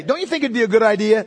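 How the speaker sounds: quick, casual suggestion put as a question; mock-polite, offhand proposal; tentative suggestion. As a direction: float it lightly as a polite question. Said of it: "They don't say it like that".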